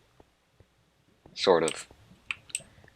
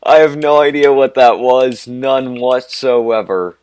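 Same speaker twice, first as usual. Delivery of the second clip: put-on much higher, much louder Valley Girl squeal, slowing on whatsoever; 6 semitones higher, 12 dB louder than usual. Gamer repeating the line as an over-the-top Valley Girl. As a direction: ham up the Valley Girl bit, full volume. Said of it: "almost a Valley Girl accent".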